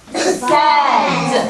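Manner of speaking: "Said" said like sed, short e; "Said" with the vowel of bed. Shown as a demonstration. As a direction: say "Said" with a short e sound. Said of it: "Say it again".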